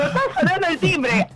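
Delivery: rievoca la battuta in personaggio, con una risata. Retold or imitated. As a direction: imita sé stessa in scena, divertita. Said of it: "En personaje".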